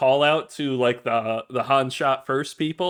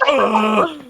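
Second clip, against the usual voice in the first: loud, higher-pitched mock groan; stumped groan; 6 semitones higher, 4 dB louder than usual. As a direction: groan as if frozen by a simple question. Mimics frozen man asked his name.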